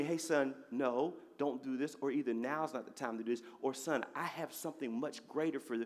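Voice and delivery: gently steer a son away, voicing the Lord; quiet, reassuring fatherly voice; gentle Lord speaking. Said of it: "So the Lord would tell me".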